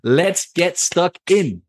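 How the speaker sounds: slow, high, drawn-out hype; a slow, high, overexcited kickoff. Real, not acted. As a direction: stretch it out with too much energy. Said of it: "bit too excited here".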